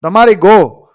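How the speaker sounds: terrified farmer crying out to the bandits, mild cry. Acted. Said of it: "બૂમ પાડી કે".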